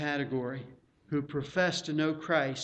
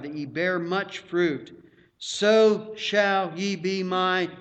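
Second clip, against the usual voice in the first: emphatic, raised scripture reading; 2 semitones higher, 4 dB louder than usual. Acted. Preacher reads the vine and branches to church, emphatic reading. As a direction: proclaim the verse to the congregation.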